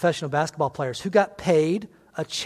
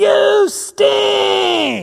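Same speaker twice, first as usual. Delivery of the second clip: raspy, booming, shrill, high-pitched, very loud heckling yell; 10 dB louder than usual. Retelling a fan at a basketball game: imitating a fan yelling. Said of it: "He's yelling".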